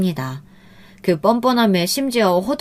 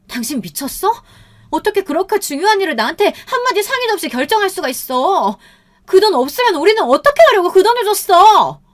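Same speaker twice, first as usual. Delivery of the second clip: high-pitched furious yelling, building louder; yelling at husband; 12 semitones higher, 4 dB louder than usual. A narrator's reading. Wife to husband after he lent their money, yelling furiously. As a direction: scream it at him, rising to full volume. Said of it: "남편에게 고래고래 소리를 질렀어요".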